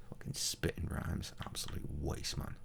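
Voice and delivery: muttered aside. Real, not acted. Streamer grumbling at a rhyming guard, muttered. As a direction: grumble it to yourself.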